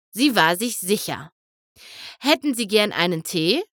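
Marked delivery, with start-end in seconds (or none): 2.2-3.6 a hint of nervous trembling; lightly shaky, nervous offer. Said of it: "fragte Bonbon mit zittriger Stimme".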